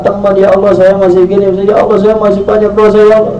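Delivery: wailing regret. Acted. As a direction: plead with God, wailing in regret. Dead man regrets his sins.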